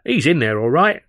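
lightly voiced cheeky kid; street urchin voice. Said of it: "said the urchin".

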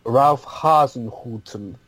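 slow, lightly put-on German accent. Shown as a demonstration. Co-host asked for the best German accent, mock German. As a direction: draw it out with a hint of German. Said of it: "say it in your best German accent".

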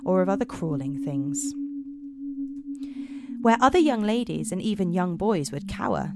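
measured storytelling voice; story narration. Acted. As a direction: tell it like a dark fairy tale. Narrates Romanian fairy tale.

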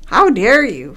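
imitating her. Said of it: "I don't sound like that".

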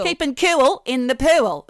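slow, high, loud Australian vowels; hammed-up Australian "coo-ul" and "poo-ul"; exaggerated Australian accent. Shown as a demonstration. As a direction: draw out the Australian oo before each L. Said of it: "That's just an accent thing".

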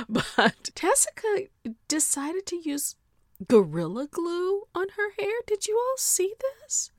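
high, laughing telling; laughing gossip. Real, not acted. Laughing while telling viewers about Tessica's glue. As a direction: giggle through the gossip.

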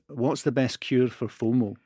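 slow, measured Edinburgh accent. Shown as a demonstration. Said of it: "get that in an Edinburgh accent".

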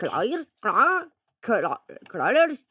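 "Kla-, Claire's" sounded out haltingly; groping pronunciation. Shown as a demonstration. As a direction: stumble through "Claire's" syllable by syllable. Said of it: "hvordan uttaler man dette?". ("Kla-, Claire's" stavet seg fram)

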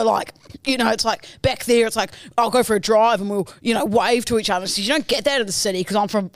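rambling country bloke from the bush; hurried, sweary small-town Aussie impression; Jack Edward Archdale. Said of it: "I'll do Jack Edward Archdale".

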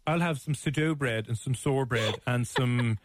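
imitating her Irish ordering voice; hammed-up Irish order at a counter; mock Irish accent. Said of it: "Stop slagging my accent".

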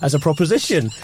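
posh Middle England voice. Acted. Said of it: "I'd be your Middle England translator".

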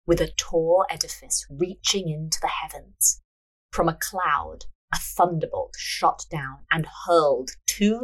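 measured storyteller's reading; story narration. A narrator's reading. Narrator reading a fortune-teller scene, measured narration. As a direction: read the tale aloud, unhurried.

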